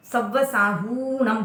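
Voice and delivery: "सव्व साहूणम", slowly, stretching हू; "साहूणम" as saa-huuu-nam after "सव्व"; long hu. Shown as a demonstration. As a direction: draw out the oo in "साहूणम". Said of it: "हु की मात्रा दीर्घ होने से".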